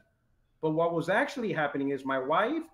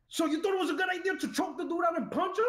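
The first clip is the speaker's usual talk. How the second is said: laughing disbelief; 12 semitones higher, faster than usual. Retold or imitated. Retold disbelief at wife.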